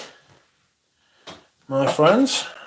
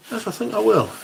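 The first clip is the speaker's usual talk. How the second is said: higher, mock-grand repeat; posh mock voice again; 9 semitones higher than usual. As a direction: say it grandly once more.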